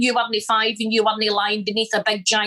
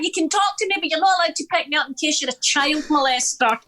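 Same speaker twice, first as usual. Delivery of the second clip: put-on high, earnest little girl; a small daughter parroting her mum's rule, pitched up high; child's voice; 6 semitones higher than usual. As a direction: recite it like a proud small child. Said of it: "She's like".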